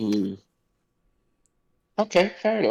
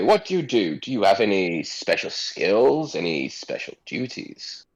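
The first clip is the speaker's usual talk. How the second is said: condescending noble. Acted. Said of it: "And he's like".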